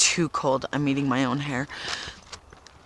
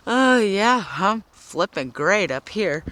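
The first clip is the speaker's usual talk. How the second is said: sarcastic cheer; 4 semitones higher, 4 dB louder, slower than usual. Acted. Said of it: "I played the strong card".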